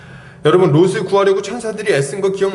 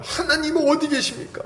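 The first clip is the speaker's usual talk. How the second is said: raised-pitch mock plea to God; pleading prayer; 8 semitones higher, 3 dB quieter than usual. Congregant asking God where he is, mock pleading. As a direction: imitate someone questioning God in prayer. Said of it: "맨날 기도할 때 하는 얘기가 뭐예요?".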